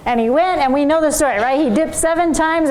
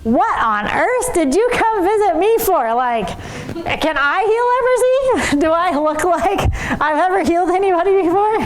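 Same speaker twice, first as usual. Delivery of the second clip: incredulous king; 4 semitones higher than usual. Retold or imitated. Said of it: "And the king of Israel says".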